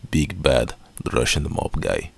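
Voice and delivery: slow, mocking Russian mobster; hint of Russian gangster accent. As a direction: draw it out like a cheesy Russian villain. Mocking the cheesy Russian villain.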